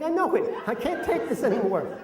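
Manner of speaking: high-pitched, comic meltdown; mock despair. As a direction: crack under the strain, hammed-up. Acted breakdown to his wife.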